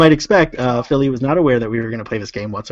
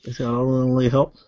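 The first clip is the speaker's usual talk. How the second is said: softer mimicked South African accent; 5 dB quieter than usual. Shown as a demonstration. Host echoing the friend's line, South African accent. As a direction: quietly echo it in South African. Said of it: "little South African".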